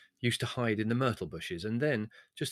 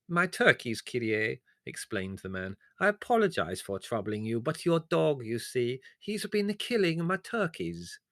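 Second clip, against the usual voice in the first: high, slow, wheedling complaint; whining villager; 3 semitones higher than usual. Acted. The servile peasant complains to Leslie: high wheedling whine. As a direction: plead your loss with fawning humility.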